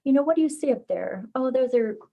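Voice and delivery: starts high with a bright "oh", then eases; wondering parent. Acted. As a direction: invite a small child to look up and wonder. Parent wondering at clouds with child.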